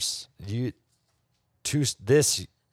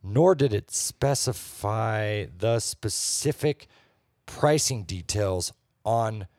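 measured, deliberate reading with pauses; mock-serious recital of a bad review; review read aloud; 3 semitones lower, slower than usual. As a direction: read out a written complaint, dragging key phrases. Reads a restaurant review aloud.

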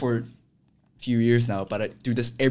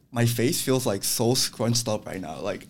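stifled giggles; 6 dB louder than usual. Real, not acted. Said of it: "I'm trying so hard not to laugh".

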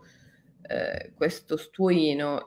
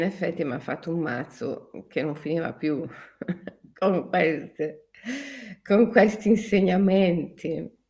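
laughing while speaking. Real, not acted. Laughs while recalling teacher.

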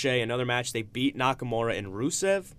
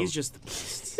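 ridiculous voice; 4 semitones higher, 7 dB quieter, slower than usual. Pretend. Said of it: "you sound ridiculous".

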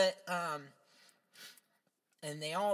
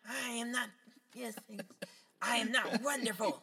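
mock Skeletor; 6 semitones higher than usual. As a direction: ham up a sulky villain. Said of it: "and he's like".

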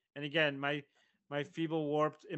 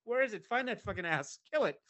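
mock official; 5 semitones higher than usual. Mock official flood order.

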